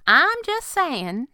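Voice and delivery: mock protest. A narrator's reading. Girl grins at her scolding boss, mock protesting. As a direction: tease slowly, pitched well up. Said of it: "she trailed off".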